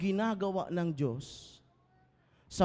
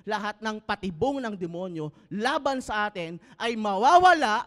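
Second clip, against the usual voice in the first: building to a loud, high cry; climactic preaching; 6 semitones higher, 7 dB louder than usual. Acted. Pastor proclaiming the devil's defeat, building loud. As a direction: build to the shout.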